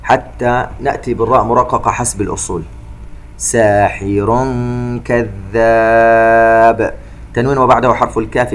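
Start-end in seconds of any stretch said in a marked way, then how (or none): 3.4-6.9 slow chanted tajweed recitation with echoing qāf; Quran recitation. Shown as a demonstration. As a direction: recite slowly, bouncing the qāf. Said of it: "نقلقلها". (تلاوة مرتلة ببطء مع قلقلة القاف)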